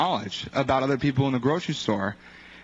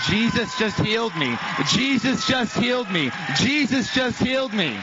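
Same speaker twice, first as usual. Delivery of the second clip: higher-pitched exclamation, climbing with each repeat; imitated overjoyed cry; 5 semitones higher than usual. Retelling a healed woman walking around, imitated overjoyed exclaiming. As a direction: act out her amazement, pitch building each time. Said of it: "she starts crying and saying".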